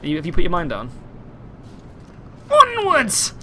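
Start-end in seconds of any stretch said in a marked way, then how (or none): 2.5-3.3 high, loud battle call; mock-heroic shout; rallying cry. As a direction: call the troops forward. Rallies teammate to move on.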